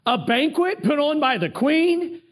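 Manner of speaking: bragging Haman voiced high and delighted; thrilled gloating. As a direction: puff up with pride at the invitation. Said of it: "I mean, he's thrilled".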